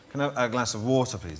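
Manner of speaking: polite, lightly played English accent. Englishman asking an American for water, polite English accent. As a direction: repeat the request in an English accent. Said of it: "they really like the English accent".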